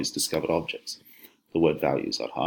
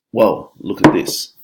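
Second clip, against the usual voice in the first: loud, slow delighted whoop; hammed-up whoop of delight; 2 semitones higher, 9 dB louder, slower than usual. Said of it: "she whooped".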